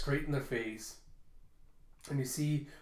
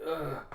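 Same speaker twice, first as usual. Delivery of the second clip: short pained groan of waking; groggy groan. Acted. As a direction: groan as if coming round hurt.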